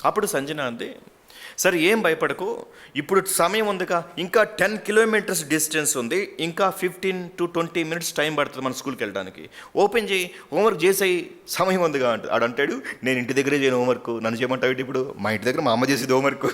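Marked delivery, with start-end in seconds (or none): 1.6-12.1 calm the little one down; reassuring older sister. Acted. Tenth-class girl comforting a crying first-grader, reassuring. 13.0-16.5 a first-grader insisting he can't do it; whiny little boy. Acted. Little boy refusing homework on the bus, whiny.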